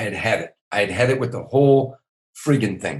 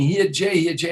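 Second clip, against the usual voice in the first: mock screaming; 8 semitones higher, 4 dB louder than usual. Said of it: "the girls start screaming".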